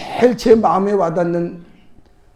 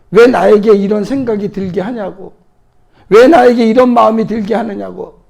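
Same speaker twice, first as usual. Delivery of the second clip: louder, rising cry of why; a preacher voicing Jesus crying out to God; anguished shout; 3 semitones higher, 5 dB louder than usual. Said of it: "그렇게 소리 지른 거라는 거예요".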